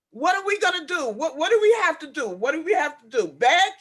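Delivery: an upset resident begging the board for help; upset pleading. Real, not acted. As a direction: beg them for an answer, near tears. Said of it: "I am getting very emotional".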